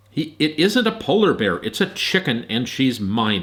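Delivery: shouted. Acted. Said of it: "Arthur shouted".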